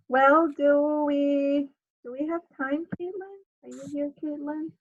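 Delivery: ordinary delivery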